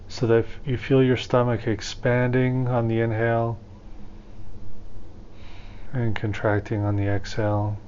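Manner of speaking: calm, measured meditation guide with long pauses; guided meditation. Acted. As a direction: ease listeners into breathing, leaving room between phrases.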